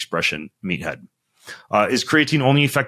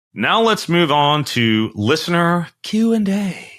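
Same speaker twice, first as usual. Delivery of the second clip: frat bro; 9 semitones higher, slower than usual. Real, not acted. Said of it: "I don't know why I said it like a frat boy".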